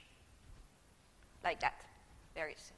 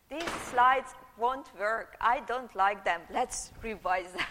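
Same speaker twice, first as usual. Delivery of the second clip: retold thought; 7 dB louder, slower than usual. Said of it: "and I thought".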